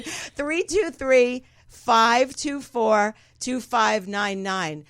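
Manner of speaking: phone number spelled out very slowly; slow dictation. Real, not acted. Host giving listeners the call-in number, slow dictation. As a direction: announce each group slowly and deliberately.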